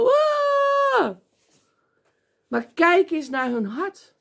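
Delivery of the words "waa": hammed-up high yell of Pharisees on the street corner; mock shout. Mocking the Pharisees shouting at street corners, a high fake yell. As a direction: shriek it out like a showy street preacher. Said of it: "staan schreeuwen".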